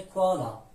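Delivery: کوالا starting on a plain k; k sound. Shown as a demonstration. («کوالا» با صدای ک)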